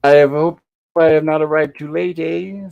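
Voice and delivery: hammy fake French doctor arriving late, lightly done; bad French accent. Host voices Gilligan's fake French doctor arriving, bad French accent. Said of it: "his bad French accent".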